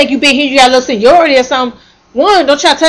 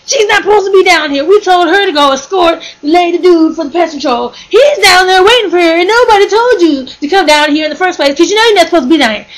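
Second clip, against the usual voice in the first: higher-pitched mock scolding yell; retold yelling; 5 semitones higher than usual. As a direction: imitate an indignant coworker telling someone off. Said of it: "over there yelling at".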